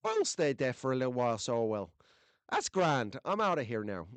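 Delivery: light mock-Irish accent; a hint of Irish, imitating a viewer. Host imitating Irish viewer's remark, light Irish accent. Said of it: "hear the Irish in your accent saying".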